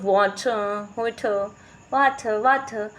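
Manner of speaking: drawn-out, overdone American "water"; mock American accent. Teacher confusing the child, mock American accent. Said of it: "American accent नहीं चलती, फिर, फिर भी teacher".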